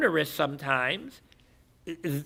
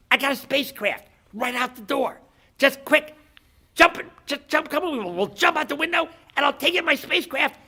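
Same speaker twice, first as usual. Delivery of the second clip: high-pitched, hurried persuasion, building louder; urgent rescue offer; 10 semitones higher, 6 dB louder than usual. Acted. Alien offers guy escape by spacecraft, urgent and high. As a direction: coax him urgently, quickening as you go.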